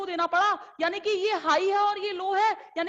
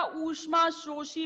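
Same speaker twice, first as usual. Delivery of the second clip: ऊष्मा शोषी said slowly, syllable by syllable; slow, deliberate teacher delivery of ऊष्मा शोषी; slow term; much slower than usual. Shown as a demonstration. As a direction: spell out ऊष्मा शोषी slowly for students to copy. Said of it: "तो ये क्या कहलाएगा".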